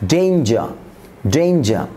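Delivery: "ডেঞ্জার" as "dein-ja"; corrected "ডেঞ্জার". Shown as a demonstration. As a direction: glide from e to i in "ডেঞ্জার". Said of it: "উচ্চারণ হবে এই".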